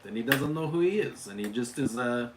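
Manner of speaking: lightly put-on Hispanic accent; character demo in a Hispanic accent; a touch of playful Hispanic accent. Shown as a demonstration. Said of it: "he talks with a Hispanic accent".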